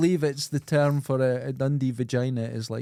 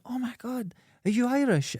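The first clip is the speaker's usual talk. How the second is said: imitated amazement; 9 semitones higher than usual. Voices thrilled strangers in green.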